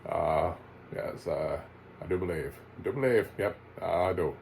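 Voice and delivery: put-on lightly drawled folksy old-timer; a hint of hammy regional drawl; Judd's regional drawl. Judd agreeing with himself, lightly drawled. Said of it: "that's my Judd voice".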